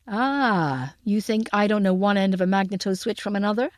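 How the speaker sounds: lightly voiced American man; American accent. A narrator's reading. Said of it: "but the American accent".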